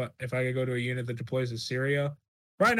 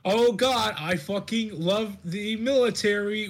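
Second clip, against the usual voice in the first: hammed-up; 8 semitones higher, 4 dB louder, slower than usual. Hammed-up closing bit.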